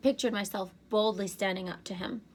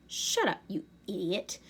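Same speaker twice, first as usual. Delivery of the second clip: growled. A narrator's reading. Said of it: "Agrias growled".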